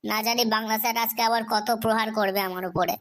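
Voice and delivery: low, dejected and downcast; glum. Acted. Student tells teacher why he is gloomy, low and glum. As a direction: sigh through it like a sulking schoolboy. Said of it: "এমন উদাসীন হয়ে গেলি".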